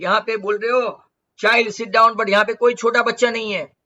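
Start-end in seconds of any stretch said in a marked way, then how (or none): 1.4-2.2 louder, haughty scolding tone. Retold or imitated. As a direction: talk down to her proudly. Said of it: "उसने ऐसा बोला haughtily". (घमंड से, ऊँची आवाज़ में डाँटते हुए)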